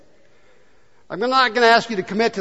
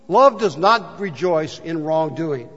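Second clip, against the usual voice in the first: slow reading; slower than usual. Shown as a demonstration. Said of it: "another Bible says".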